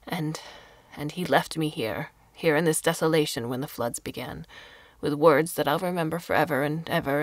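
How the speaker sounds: put-on an old woman's lament swelling up; abandoned old woman telling Carlo of her lover, rising; lightly voiced bitter old woman. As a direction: let the grief build as she speaks. Old woman recalls being abandoned.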